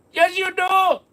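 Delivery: put-on high Indian accent, yelling it again; shouted scammer accent. Scammer shouts the retort again, Indian accent. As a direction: Indian accent, belting the comeback. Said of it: "stop doing that accent".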